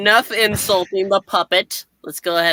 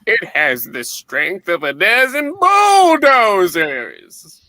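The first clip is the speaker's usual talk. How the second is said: ominous voice; 4 dB louder, much slower than usual. Acted. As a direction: build dread slowly. Dramatic comic caption voice.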